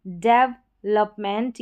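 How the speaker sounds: डेवलपमेंट drawn out syllable by syllable; slow model word. Shown as a demonstration. Teacher reads the given pronunciation, slowly. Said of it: "यहाँ पर उच्चारण दे रखा है".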